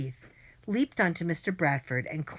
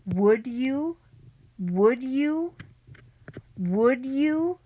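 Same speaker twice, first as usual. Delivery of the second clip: "Would" pushed louder and higher each time; stress on would; 8 semitones higher, 5 dB louder, much slower than usual. A narrator's reading. Friend hinting at a secret plan, insistently stressing "Would". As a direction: hammer "Would you?" with rising urgency. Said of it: "overemphasizing the word would".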